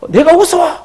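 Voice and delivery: very high, loud indignant outburst; hammed-up angry disbelief; acted quarrel. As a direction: shout back in mock outrage. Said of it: "막 싸우는 거예요".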